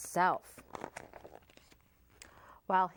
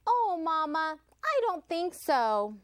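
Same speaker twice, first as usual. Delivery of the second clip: Otis voice; 6 semitones higher than usual. A narrator's reading. Otis answers mama.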